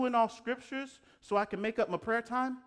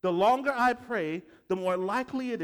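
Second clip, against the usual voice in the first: loud slow mock belief; 7 dB louder than usual. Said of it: "And they think".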